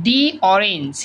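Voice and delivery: the said as "thee" before orange; "thee" before vowel. Shown as a demonstration. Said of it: "উচ্চারণের নিয়ম". ("দি" orange উচ্চারণ)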